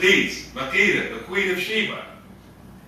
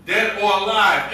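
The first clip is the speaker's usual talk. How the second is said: "dead" given extra weight; emphasis on "dead"; 2 semitones higher, 4 dB louder than usual. Shown as a demonstration. Preacher describing a wanted poster, stressing "dead". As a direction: lean on the word "dead". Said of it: "Emphasis on dead".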